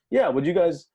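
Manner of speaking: loud, high, urgent back-and-forth; insistent retold exchange. Promoter presses the stunned musician again, loud and insistent.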